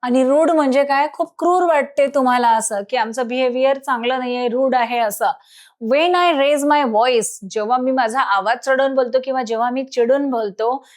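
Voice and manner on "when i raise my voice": slow reading. Shown as a demonstration. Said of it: "teacher reads English line slowly".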